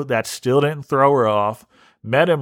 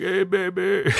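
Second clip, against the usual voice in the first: sleepy catfish voice; 7 semitones higher, 4 dB quieter than usual. Retold or imitated. The catfish greeting Priscilla, mock-sultry croon. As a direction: croon it like a tired online lover. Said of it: "he was like".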